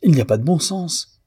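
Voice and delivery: the landlady bursts in, livid; landlady pale with fury, crying out; furious outcry. Acted. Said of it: "s'écria-t-elle".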